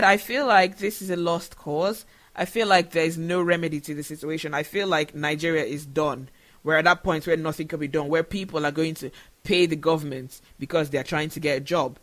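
real emotion welling up, pitch sinking low; holding back tears while speaking; choked up. Real, not acted. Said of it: "I'm sorry I'm getting emotional".

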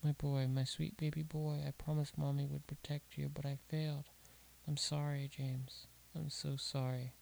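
whisper-close sorrow as it dies away; a mother's broken goodbye; grieving apology. Acted. Mother apologises over dead son.

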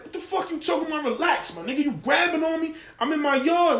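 high-pitched imitated protest; indignant retort. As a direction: act out an offended man pushing back. Acted father arguing with police.

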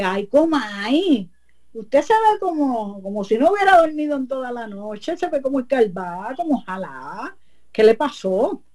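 a hint of a sly neighbour; witch's voice. La bruja finge preocupación. (la bruja comay finge preocupación, voz más aguda)

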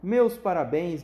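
loud, slow, beaming congratulations; congratulating shout. Acted. Wonka congratulating Charlie, a hearty shout. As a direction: call it out with delight. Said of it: "gritou o senhor Wonka".

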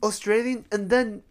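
lightly mocking student, pitch starting high; imitating returnee student. Returnee student needling the English teacher, lightly mocking. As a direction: mimic a puzzled student picking at an accent. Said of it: "半年前に帰ってきたやつらとか".

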